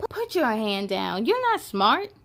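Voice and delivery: lightly voiced sneering bully; a hint of a mocking monster; taunting fear monster. Fear monster taunting Alma, lightly voiced sneer.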